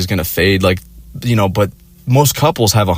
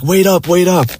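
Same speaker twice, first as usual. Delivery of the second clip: higher-pitched imitation of an annoyed girlfriend; mock annoyance; 9 semitones higher than usual. Girlfriend calling to boyfriend walking ahead, mock annoyance. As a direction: lightly mimic her calling after you. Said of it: "she would get so mad".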